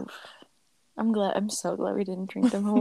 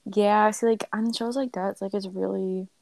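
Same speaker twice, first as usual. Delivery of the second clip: talking between burps; breathy, burp-interrupted speech. Real, not acted. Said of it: "sorry, I keep burping".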